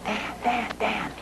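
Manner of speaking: urgent hushed phone voice calling a name; mock whisper, a worried employee on the line; retold whisper. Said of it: "he's whispering".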